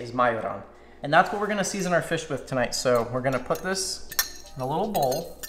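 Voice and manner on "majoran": majoran as "MY-oh-ran"; Slovak pronunciation. Shown as a demonstration. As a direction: give majoran its Slovak sound, j as y. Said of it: "That's how we say it".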